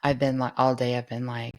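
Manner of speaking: worn-out, hoarse lost voice. Real, not acted. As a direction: push words through a hoarse voice. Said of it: "I lost my voice over the weekend".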